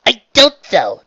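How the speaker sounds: high, loud insistence; tearful protest. A narrator's reading. Trixie wipes her eyes and disagrees, insistent. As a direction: protest hard, easing on the last word. Trixie argues back through tears.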